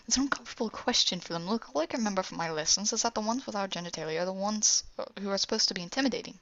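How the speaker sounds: quick, mildly impatient explanation. Acted. Rurik explaining human gender to Afanasi, impatient. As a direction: hurry through it, a touch exasperated. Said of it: "Rurik gets impatient".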